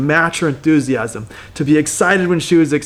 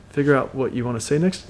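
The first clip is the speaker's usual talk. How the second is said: curious mirroring tone; 2 semitones lower, 5 dB quieter than usual. Shown as a demonstration. Coach demos mirroring the last words, softly curious. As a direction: hand the words back as a quiet, wondering question. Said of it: "with a little bit of a curious tone".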